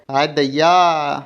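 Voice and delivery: slow, strained cry of pain; Red Wolf after a hard kick to the stomach, slow pained groan; winded groan. A narrator's reading. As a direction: moan it out like you just got kicked in the gut.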